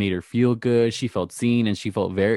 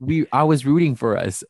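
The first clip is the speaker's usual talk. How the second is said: louder line with the stress misplaced in "rooting for us"; misplaced emphasis; 3 semitones higher, 5 dB louder than usual. Retold or imitated. Host imitating a flubbed line, misplaced stress on "I was rooting for us". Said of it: "is not emphasizing the correct word".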